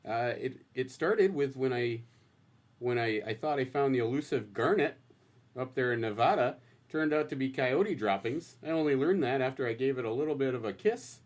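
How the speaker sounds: folksy North Dakota accent, lightly done. Shown as a demonstration. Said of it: "You wanna give us a little taste?".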